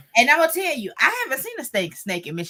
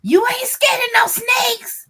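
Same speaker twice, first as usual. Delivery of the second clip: teasing friend; 11 semitones higher, 4 dB louder, slower than usual. Retold or imitated. Friend's teasing question retold.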